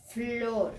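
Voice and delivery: "flor" with a long F blended into L; drawn-out word. Shown as a demonstration. Teacher presents F-L word to children, drawn out. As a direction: stretch "flor" as an example. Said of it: "decir la palabra".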